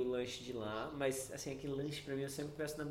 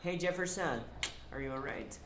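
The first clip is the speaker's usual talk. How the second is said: lightly voiced greeting.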